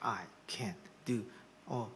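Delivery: whispered prayer when feeling down. Shown as a demonstration. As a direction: breathe it out like a prayer from the depths. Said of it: "when you are down in the doldrum".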